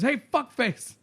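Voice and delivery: a cheerful jab; mock insult. Retelling the Afterlife insult.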